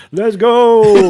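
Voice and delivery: loud, high battle cry; excited shout. Retold or imitated. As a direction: yell it like a rallying cry. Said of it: "and I'd be like".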